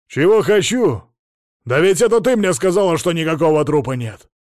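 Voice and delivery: flaring up. A narrator's reading. Patient yelling back at the therapist, loud and outraged. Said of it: "взвился Мамонов".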